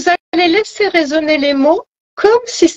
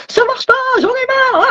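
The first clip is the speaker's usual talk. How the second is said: voix perchée de râleur exaspéré; mental qui crie; 12 semitones higher than usual. Acted. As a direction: imite un mental qui couine sa plainte, très aigu. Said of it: "qui arrête pas de vous crier". (voix criarde imitée, sans vraiment forcer le volume)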